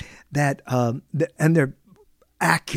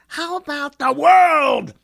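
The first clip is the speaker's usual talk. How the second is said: slow, louder, higher grand claim; grandiose mock; 7 semitones higher, 4 dB louder, slower than usual. Host mocking a greedy man, slow and grand. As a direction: stretch it out like a would-be emperor.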